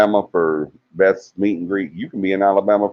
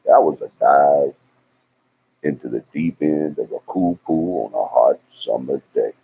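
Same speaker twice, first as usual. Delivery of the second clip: little southern accent; 3 semitones lower than usual. Shown as a demonstration. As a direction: lay a touch of Southern accent on it. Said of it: "put that little southern accent in there".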